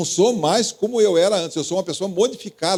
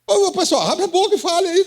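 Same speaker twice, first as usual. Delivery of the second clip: pitched-up rallying call at the silent audience; calling out to the crowd; 12 semitones higher than usual. Real, not acted. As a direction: raise the voice and call them to speak up. Pastor urging congregation to answer.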